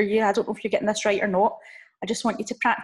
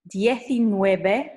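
slow, drawn-out "Diecinueve", rising at the end; modelled for repetition; much slower than usual. Shown as a demonstration. Teacher giving learners a number to repeat, slow and deliberate. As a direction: stretch out "Diecinueve" with a lifted ending. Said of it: "after me".

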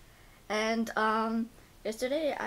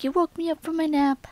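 voicing the cat; 6 semitones higher, 6 dB louder than usual. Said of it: "She's like".

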